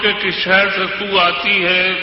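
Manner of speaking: measured, declamatory poetry recital; stately nazm recitation. Acted. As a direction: recite each couplet with weight. Recites a ghazal at a mushaira.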